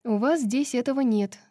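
put-on lightly animated young-woman dialogue; chatty heroine.

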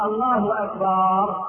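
slow takbir ending in long "akbaar"; added alef in أكبر. Shown as a demonstration. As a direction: stretch the vowel after the ب in "أكبر". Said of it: "إدخال ألف بعد الباء في كلمة أكبر". (مد الباء في أكبر: أكبار)

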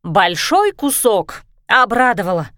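mock «большой кусок», slow and scornful; snorting sarcasm. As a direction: sneer back at the hopeful words. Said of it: "фыркнула Сису".

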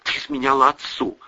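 ИЗМЕНЯЛА ОТЦУ stated, no questioning tune; statement, not question. A narrator's reading. Daughter accuses mother, stating ИЗМЕНЯЛА ОТЦУ as fact. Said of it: "Это не прозвучало вопросом".

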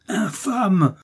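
premier « Infâme! » crié haut et aigu; hurlement. A narrator's reading. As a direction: crie « Infâme! » d'une voix changée, aiguë. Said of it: "hurlait Milady". (Milady hurle « Infâme! » contre d'Artagnan, voix aiguë)

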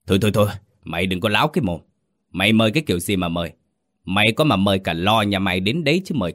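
fast, scornful scolding; angry old master. Acted. Master mocking his servant's excuses, fast and angry. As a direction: cut the servant off and run him down.

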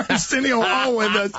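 talking through a laugh. Real, not acted. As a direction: still chuckling on the words. Host still laughing after joke.

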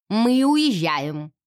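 put-on old lady announces departure, hard and cold; clanging. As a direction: clang each word like a gun bolt. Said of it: "Голос её лязгнул".

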